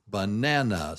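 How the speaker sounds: Banana with a strong middle NAN; stress on second syllable. Shown as a demonstration. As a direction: say Banana small-BIG-small, punching nan. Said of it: "So it's small, ba, big, nan, a".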